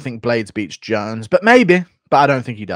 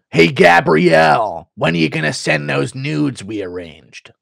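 mock fan letter voice; slower than usual. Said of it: "this one says".

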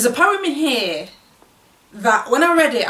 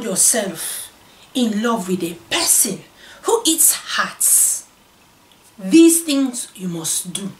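poem recited in a lightly voiced West African accent; hint of a West African accent, dramatic recital; performing the poem in a West African accent with whispered lines. Shown as a demonstration. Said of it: "I'm gonna read this in a West African accent".

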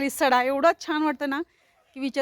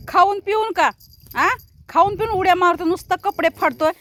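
loud, higher scolding of a naughty animal; mock scolding; 4 semitones higher, 5 dB louder than usual. Real, not acted. Scolding the animal that tore her clothes, loud and exasperated. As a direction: raise the voice and tell it off.

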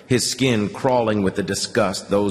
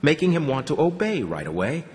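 plain reading voice

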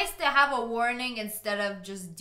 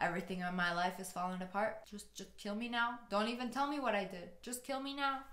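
mock despair; 3 semitones lower, 12 dB quieter than usual. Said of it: "I'm like".

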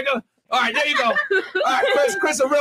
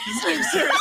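a squeaky mock fright, much higher; imitating scared women. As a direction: play the startled ladies, half-laughing. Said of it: "They're looking at me like".

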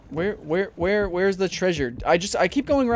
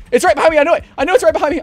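nervous; 10 semitones higher, 9 dB louder, much faster than usual. Real, not acted. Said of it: "My heart".

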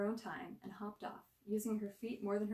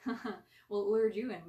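laughing; 10 dB louder, slower than usual. A narrator's reading. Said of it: "Mikey laughed".

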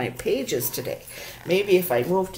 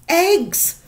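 much higher voiced boy; Stuart said; 12 semitones higher, 7 dB louder than usual. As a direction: squeak it out high. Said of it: "Stuart said".

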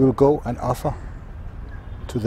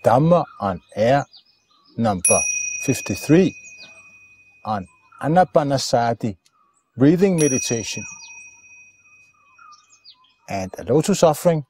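deliberate, halting show announcement; programme announcer. Acted. Greeting friends at the start of Dhamma on Air, programme announcer. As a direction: announce each phrase separately, with swooping emphasis.

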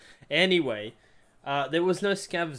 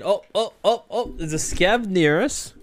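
mock-alarmed call of a scav nearby, louder; fake alarm voice line; 2 semitones higher, 5 dB louder than usual. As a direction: pretend to spot an enemy to trick them. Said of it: "I'm voice lining and I'm saying".

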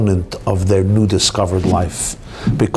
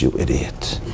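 gruff God; 11 semitones lower, 7 dB quieter than usual. Acted. God scolds in joke.

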